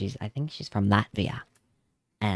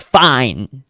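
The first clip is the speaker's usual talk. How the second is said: mock huffy fine; 3 semitones higher, 10 dB louder than usual. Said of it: "we were eventually like".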